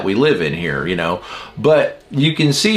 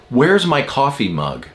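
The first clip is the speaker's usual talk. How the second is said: mildly demanding husband; retold curt demand. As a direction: ask it as a blunt, accusing demand. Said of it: "he said it like that".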